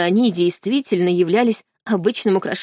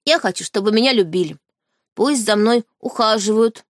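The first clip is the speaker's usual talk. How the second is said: ordinary delivery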